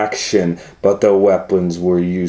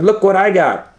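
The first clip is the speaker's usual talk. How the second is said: teasing call; 9 semitones higher than usual. Acted. Limburger luring the cat.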